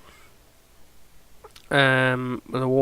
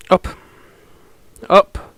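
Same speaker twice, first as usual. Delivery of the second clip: loud wake-up call; 6 semitones higher, 6 dB louder than usual. Acted. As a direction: shout it to wake them. Waking the colonists.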